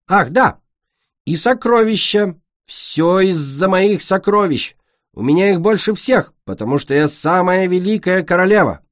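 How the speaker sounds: suddenly remembering the treasure; excited queen. Acted.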